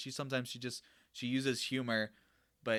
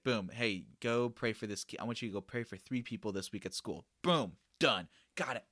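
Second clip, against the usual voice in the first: bossy mock order. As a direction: bark out orders like a drill leader, half in jest. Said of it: "I just said it like that".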